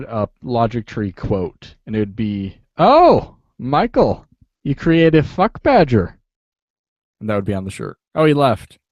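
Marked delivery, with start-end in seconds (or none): 2.8-6.2 high, gushing and loud; gushing mock praise. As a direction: gush it like a fan.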